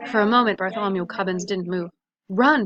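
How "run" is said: loud royal bark of a command; barked order. A narrator's reading. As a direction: bark it at the boy like a king. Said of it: "barked the king".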